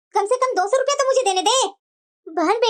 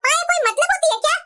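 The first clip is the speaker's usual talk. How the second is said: indignant, raised-pitch grumbling; angry complaint; 4 semitones higher than usual. Acted. Daughter grumbles to her mother about the aunt's daughter-in-law, angry complaint. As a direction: complain crossly to your mother. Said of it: "इतना गुस्सा क्यों हो रही है?".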